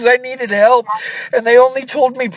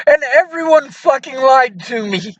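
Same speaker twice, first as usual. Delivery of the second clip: crying. Real, not acted. Caller on the phone to a friend, crying. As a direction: voice breaking into tears mid-sentence.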